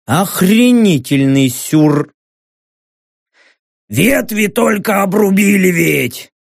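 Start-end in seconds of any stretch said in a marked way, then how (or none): 3.9-6.3 upset bark. Acted. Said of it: "огорченно рявкнул орк".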